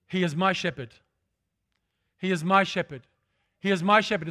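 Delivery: "my" pressed each time, building slightly; growing personal conviction; stress on my. Shown as a demonstration. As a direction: repeat it, leaning on "my" harder each time. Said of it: "It's personal".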